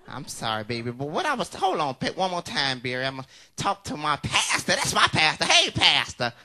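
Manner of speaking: ordinary talk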